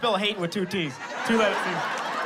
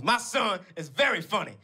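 lightly voiced stepmom, raised pitch; 2 semitones higher than usual. Stepmom answering her son's online hater, lightly voiced comeback. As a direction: imitate a stepmom defending her son. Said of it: "And my stepmom, she goes".

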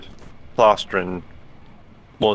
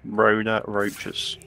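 savouring the joke, very slow; slow drawn-out; 5 dB quieter, much slower than usual. Real, not acted. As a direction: stretch each word out slowly. Drawn-out echo of friend's joke.

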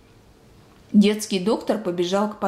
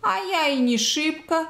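higher-pitched, mildly haughty reply; dignified retort; 6 semitones higher than usual. A narrator's reading. Old woman mishearing the doctor, dignified retort. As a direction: answer back with dignity. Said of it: "с достоинством отвечала Анна Петровна".

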